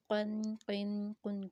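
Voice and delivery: قن with a thick, bouncing, resonant Q; echoing qalqalah. Shown as a demonstration. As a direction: let the heavy Q ring out in each قن. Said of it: "قلقلہ sound کے ساتھ پڑھے جائیں گے".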